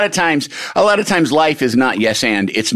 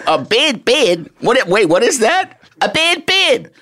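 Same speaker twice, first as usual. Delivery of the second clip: mock confused; 10 semitones higher than usual. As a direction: act baffled by the phrase.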